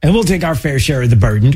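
mock eager voice of the latecomer; mock eager ally. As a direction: ham it up like a latecomer wanting credit. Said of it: "it's like".

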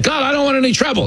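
high, fast, anxious; nervous tourist. Retold or imitated. Tourist to hustler, high anxious and hurried. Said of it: "they're like".

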